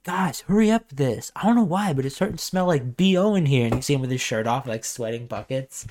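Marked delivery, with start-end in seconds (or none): 0.0-3.7 higher whiny complaint; put-on high griping; Muscle Man's voice. Muscle Man stuck in the necklace, whining high. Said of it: "he's like".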